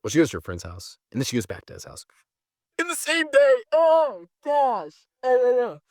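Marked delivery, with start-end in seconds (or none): 2.8-5.8 high, louder disbelief; incredulous outburst. Real, not acted. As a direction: shriek it in disbelief at the betrayal. Incredulous at girlfriend's betrayal.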